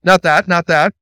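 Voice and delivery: loud, rising call-and-response; emphatic call. Shown as a demonstration. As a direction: lead the crowd's reply. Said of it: "Somebody say".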